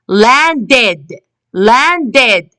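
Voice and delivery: "landed" in two careful syllables, ending ed; teacher's model "landed", last syllable sounded ed. Shown as a demonstration. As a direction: say "landed" with a full final ed. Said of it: "We can hear the ed sound".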